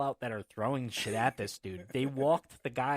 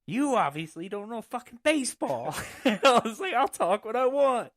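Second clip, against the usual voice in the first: higher, louder defiant shout; defiant retort; 10 semitones higher, 8 dB louder than usual. Retold or imitated. Heckler talking back to the house mom, loud. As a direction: talk back loudly. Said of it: "And I said".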